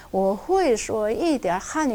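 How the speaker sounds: 我会说一点汉语 very slowly, tone by tone; 我会说一点汉语 syllable by syllable; 아주 천천히 성조대로; slow tonal demo. Shown as a demonstration. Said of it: "이 한 문장을 정확하게".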